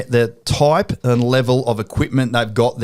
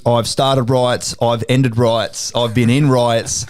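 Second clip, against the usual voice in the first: slow quote; much slower than usual. Retold or imitated. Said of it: "you said to me".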